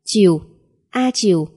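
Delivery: "A" slipping into "Chiều", like a little sneeze; mispronounced like sneeze. A narrator's reading. Frightened pupil attempting the vowel A, sneeze-like "A chiều". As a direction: let "A chiều" come out as a small achoo. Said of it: "phát ra một âm đuôi biến điệu run rẩy".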